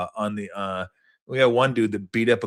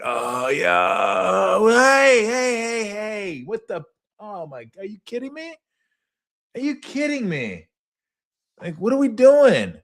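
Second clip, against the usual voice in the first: high mock panic, much higher; interrupted guy; 11 semitones higher, slower than usual. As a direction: shriek like someone whose stream just cut out. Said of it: "He's like".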